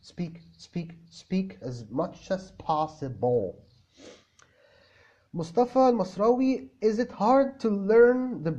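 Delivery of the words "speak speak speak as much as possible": slow insistence. Shown as a demonstration. Insisting on speaking practice.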